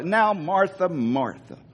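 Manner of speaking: a fading folksy "Martha"; Andy Taylor gently settling Martha down. Retold or imitated. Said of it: "I can almost hear Andy Taylor doing this".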